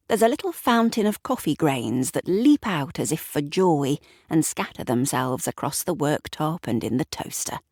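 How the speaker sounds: ordinary delivery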